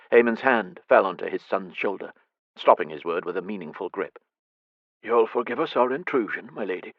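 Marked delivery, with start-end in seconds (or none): 5.0-6.9 gentle enunciation. Acted. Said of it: "he enunciated gently".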